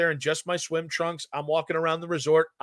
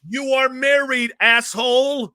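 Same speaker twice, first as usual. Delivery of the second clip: annoyed wife; 8 semitones higher, 5 dB louder than usual. Retold or imitated. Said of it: "my wife was like".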